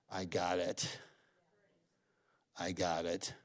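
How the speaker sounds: low, soft, understated reassurance; quietly reassuring. Retold or imitated. God answering people afraid to give, quietly reassuring. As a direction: say it low and quiet, with calm assurance. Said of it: "And God goes".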